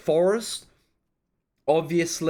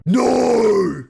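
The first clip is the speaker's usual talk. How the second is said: loud, high cry of protest; dismayed shout; 5 semitones higher, 3 dB louder than usual. Real, not acted. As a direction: wail it at the screen. Film ends on cliffhanger.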